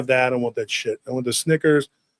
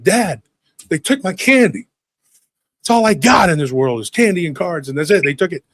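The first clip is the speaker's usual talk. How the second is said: raised, mock-desperate kid; pleading; 3 semitones higher than usual. Kid grabbing dad over stolen candy, retold pleading. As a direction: plead your case, easing down at the end. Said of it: "so I pled my case to my dad".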